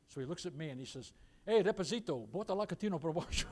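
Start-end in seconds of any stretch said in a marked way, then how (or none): 1.5-3.5 father's mock-Spanish flourish; quick Portuguese passed off as Spanish; lightly put-on Spanish accent; Spanish-style Portuguese. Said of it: "my father put it with, like, a Spanish".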